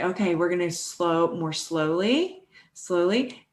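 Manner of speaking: soft and slow, drawing out "slowly"; calm coaching voice. Retold or imitated. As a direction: guide a tense client to slow down. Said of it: "And then I'll say".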